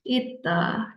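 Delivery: "Ita" with a stopped t in place of s; "Ita" with a held stop and no hiss; correct reading. Shown as a demonstration. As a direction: model "Ita" as it-da, first syllable closed by a stop. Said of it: "kalau gini bacanya apa?".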